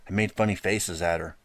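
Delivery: ordinary delivery, nothing marked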